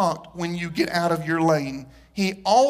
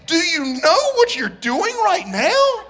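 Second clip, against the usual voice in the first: higher, outraged road-rage yell; hammed-up road rage; mock angry driver; 8 semitones higher, slower than usual. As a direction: scold the other driver in mock fury. Retold angry driver yelling.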